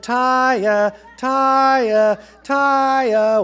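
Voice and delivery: loud, high sing-out of the name; searching call. A narrator's reading. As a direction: call out for a lost child. Father calls out searching for child.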